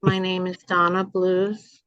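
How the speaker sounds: slow, careful neutral American; failed try at a neutral accent; trying to lose the accent. Shown as a demonstration. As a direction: speak slowly, trying to hide the Jersey accent. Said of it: "I don't know if I can lose it. Let me see".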